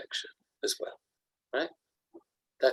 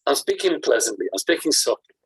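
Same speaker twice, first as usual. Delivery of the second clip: a louder, hammed-up smug take on "I'm speaking pleasantly"; deluxe smug version; 5 dB louder than usual. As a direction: puff it up, self-satisfied and pleased. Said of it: "the deluxe version".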